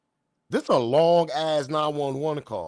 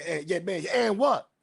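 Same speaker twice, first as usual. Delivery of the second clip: mock distracted reply; 5 semitones higher than usual. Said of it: "You can hear by the tone of the voice".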